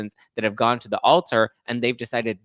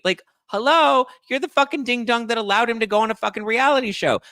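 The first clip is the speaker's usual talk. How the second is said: much higher, louder incredulous rant; exasperated rant; 13 semitones higher, 4 dB louder than usual. Real, not acted. Host rants at the girlfriend who allowed the show, higher and louder. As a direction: let the disbelief fly.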